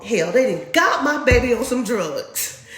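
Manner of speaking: a frantic father losing it; panicked dad. Retold or imitated. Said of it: "He said".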